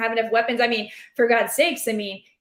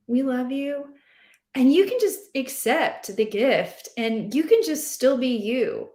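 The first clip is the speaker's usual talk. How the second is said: reassuring pep talk. Acted. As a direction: talk him down kindly, like a friend. Direct pep talk to Dak.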